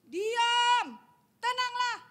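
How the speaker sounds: loud, firm rebuke to the storm; commanding shout. Retold or imitated. Jesus orders the stormy lake to be still, loud and firm. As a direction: boom it out like calming the sea. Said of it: "kata Tuhan Yesus sama danau itu".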